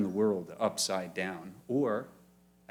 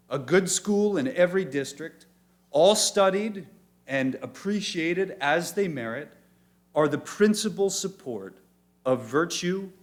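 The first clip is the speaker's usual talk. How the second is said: raised, higher, building with each item; emphatic quote; 4 semitones higher, 5 dB louder than usual. Shown as a demonstration. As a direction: proclaim it like a founding creed.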